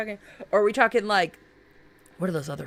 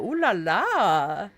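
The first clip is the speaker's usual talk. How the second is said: teasing ooh la la; much slower than usual. Real, not acted. Reacting to a sexy design.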